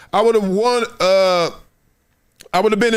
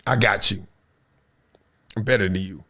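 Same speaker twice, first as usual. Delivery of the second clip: mock boast; 12 semitones lower, 4 dB quieter than usual. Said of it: "and be like".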